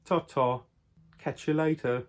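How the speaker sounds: a lightly put-on mock English accent for the goodbye; a half-hearted English accent farewell; terrible English accent. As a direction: toss off the sign-off in a bad English accent. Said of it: "into a terrible English accent".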